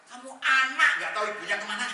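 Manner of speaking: high, loud hammed-up scolding father; mock scolding. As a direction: snap at the kid, half-joking. Angry father scolding child. (bapak pura-pura marah membentak anaknya dengan suara tinggi dan keras)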